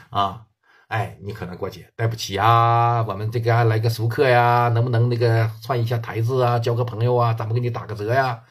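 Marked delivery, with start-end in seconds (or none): 2.0-8.4 polite request. Retold or imitated. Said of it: "南方的朋友可能会很好说话".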